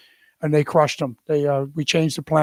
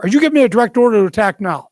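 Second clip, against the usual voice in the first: retold pointed challenge; 4 semitones higher, 5 dB louder, faster than usual. Pressing boss for direct order.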